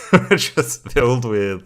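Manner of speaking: real laugh breaking into the words; chuckling while restarting the phrase. Real, not acted. Cracks up repeating the phrase.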